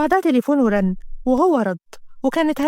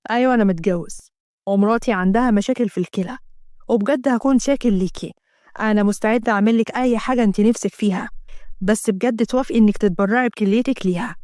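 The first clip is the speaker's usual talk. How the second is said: a lower, calmer man's voice; a hint of a lower male voice; lightly voiced husband; 4 semitones lower than usual. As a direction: play the husband asking plainly. Asem voiced by narrator.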